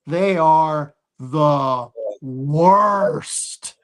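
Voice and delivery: breathy slow whisper, drawn out; hushed slow whisper of disgust; whispered aside. Real, not acted. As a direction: lean in and whisper it like a secret. Whispered aside about worst teams.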